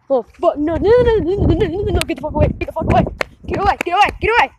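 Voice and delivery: rapid, repeated frantic pleading; real panic. Real, not acted. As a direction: fend it off in a rush of fear. Frightened by noise in woods.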